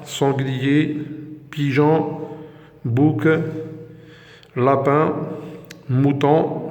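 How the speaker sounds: words said one by one with a rising tune; review drill. Shown as a demonstration. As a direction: list them out clearly for the class. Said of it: "Je répète". (قراءة واضحة للكلمات كلمة بكلمة)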